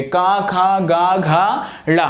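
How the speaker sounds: का खा गा घा ड़ा said from the throat; ka-varga recital. Shown as a demonstration. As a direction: sound each of का खा गा घा ड़ा clearly from the throat. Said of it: "कहाँ से उच्चारित होंगे".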